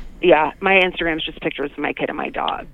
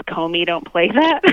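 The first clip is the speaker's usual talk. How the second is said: sassy note read out; 2 semitones lower, slower than usual. Retold or imitated. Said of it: "it just says".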